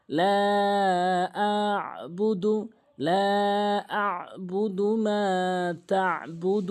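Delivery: very slow tajweed with held vowels; Quranic recitation. Shown as a demonstration. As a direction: chant slowly, stretching each madd. Teacher recites the verse after spelling.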